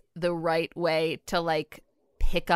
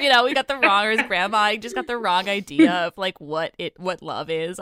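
laughing; 6 dB louder than usual. Real, not acted. Laughing through a joke.

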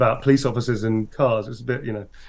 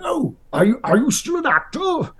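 very high, booming theatrical query; Brian Blessed impression; 13 semitones higher than usual. Old actor asking the grown-up fan, booming. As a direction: boom it like a grand old thespian. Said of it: "he went".

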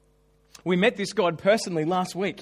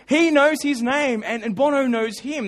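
higher, louder, slow stress on he; emphatic; 5 semitones higher, 6 dB louder than usual. Real, not acted. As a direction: hammer home the wonder. Emphatic marvel at a connection to a singer.

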